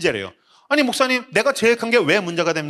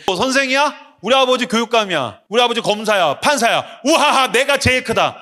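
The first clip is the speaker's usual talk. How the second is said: bratty student; 5 semitones higher than usual. Retold or imitated. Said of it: "선생님한테 예의를 갖춰야 되는데".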